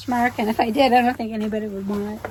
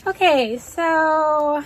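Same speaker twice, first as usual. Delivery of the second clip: talking with hair in mouth; 4 semitones higher, much slower than usual. Real, not acted. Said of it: "get my hair out of my mouth".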